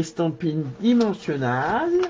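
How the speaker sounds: product name in a French-tinged English accent. Shown as a demonstration. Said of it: "avec mon accent anglais comme Noël aime".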